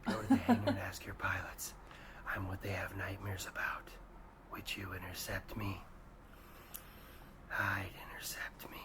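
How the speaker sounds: soft, breathy threat spoken into the ear; menacing whisper. Acted. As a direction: whisper it like you're the thing in their nightmares. Menacing boast to rival nations.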